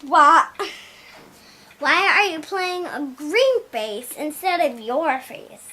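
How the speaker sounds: mock surprise; shocked what. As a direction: blurt out disbelief. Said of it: "they were like".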